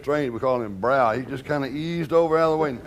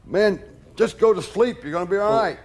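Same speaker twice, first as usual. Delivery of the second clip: a raised, exasperated scolding; angry outburst; 6 semitones higher than usual. Retold or imitated. Bodyguard storming out of his room to scold Elvis, exasperated and raised. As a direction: snap at him to just go to sleep. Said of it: "I come storming out and say".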